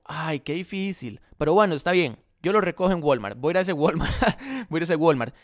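a hint of a put-upon customer caving; mock customer. Seller tells the customer he must haul it: mild mock reluctant customer.

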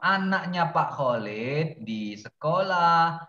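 drawn-out, high singsong lament, dipping on the sigh to God; exasperated singsong. Real, not acted. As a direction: plead with hopeless pupils in long, lilting phrases. Teacher despairing over pupils' mistakes.

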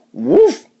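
very high little woof; high, sharp woof; dog barking. Acted. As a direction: bark like a small excited dog. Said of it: "the dog called the cat".

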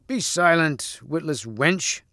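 mildly angry rebuke, falling in pitch. Acted. Sir Kay silences the damsel, mildly angry. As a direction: scold with a touch of anger. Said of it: "cried Sir Kay angrily".

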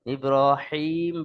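ইব্রাহিম with a strong, throaty pharyngeal big ha; wrong heavy ha. Shown as a demonstration. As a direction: make the h in ইব্রাহিম a tight big ha. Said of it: "বড় হা উচ্চারণ হয়ে যায়". (ইব্রাহিম, ভুল করে বড় হা দিয়ে উচ্চারণ)

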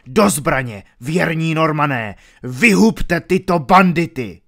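loud rallying yell; shout. A narrator's reading. Baron yelling at his Normans to attack. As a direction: drive the Normans to fight. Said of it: "křičel baron".

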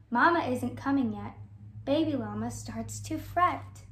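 lively picture-book read-aloud; gentle sing-song storybook reading; reading to children. Acted. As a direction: read it like storytime for little kids.

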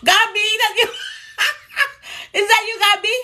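light up at seeing a friend; excited greeting. Real, not acted. Host greeting Gabby joining the live, delighted.

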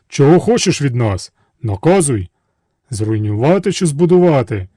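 a hint of booming genies; genie chorus. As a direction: eagerly demand a command. Genies ask for orders.

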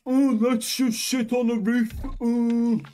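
high, loud exasperated ranting; raging gamer. Real, not acted. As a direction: yell in disgust.

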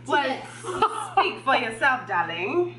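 mock British accent. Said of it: "My accent is awesome".

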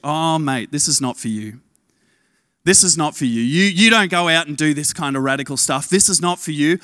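a hint of a sneering enemy voice; doubting inner voice. Preacher voicing the doubts in listeners' heads, low and dismissive. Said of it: "the voices that are speaking into your head".

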